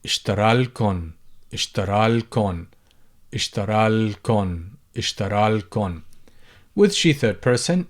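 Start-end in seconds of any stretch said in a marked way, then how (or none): 0.1-6.0 اشترى لكن, alif gone; shortened form. Shown as a demonstration. Teacher drills the spoken short form. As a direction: say لكن straight after the verb. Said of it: "People would say".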